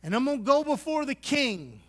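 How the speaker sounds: a firm shout of faith to God; bold declaration. Retold or imitated. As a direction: proclaim it like a man going big. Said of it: "He says".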